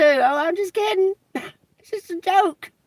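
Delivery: high, laughing "Oh, I'm just kidding"; mocking laugh. Shown as a demonstration. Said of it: "say it in that manner, too".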